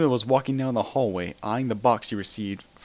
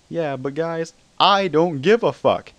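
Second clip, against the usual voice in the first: Spider-Man voice; 7 semitones higher, 7 dB louder, slower than usual. A narrator's reading. Spider-Man's signature line.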